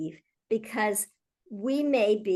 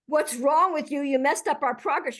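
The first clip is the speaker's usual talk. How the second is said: accusing; 4 semitones higher than usual. Shown as a demonstration. Manager scolding a colleague after the meeting, accusing. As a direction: demo of the wrong way to ask. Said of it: "instead of saying ... you might say".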